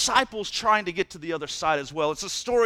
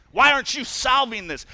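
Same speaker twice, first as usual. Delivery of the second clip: louder, mock-whiny voice blaming someone else; whiny complainer; 5 semitones higher, 5 dB louder than usual. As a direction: ham up a petty complainer tossing his problem away.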